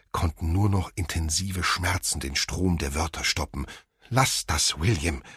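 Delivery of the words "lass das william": called out. Acted. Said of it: "rief seine Mutter".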